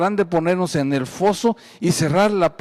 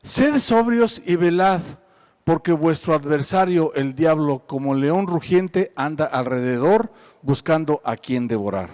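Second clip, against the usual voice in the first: scripture reading; 3 dB louder than usual. Acted. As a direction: proclaim the verse to the congregation. Preacher reads scripture aloud.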